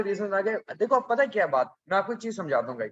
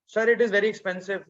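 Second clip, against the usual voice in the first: mock student answer; much slower than usual. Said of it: "फिर लिखोगे".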